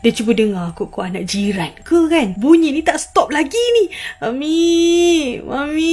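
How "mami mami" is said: lightly voiced whining kid, drawn out; whiny child calling. Unseen child calls mother for help, drawn-out whine. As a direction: imitate a child pleading for help. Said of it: "Budak ni macam merengek-rengek, macam minta tolong".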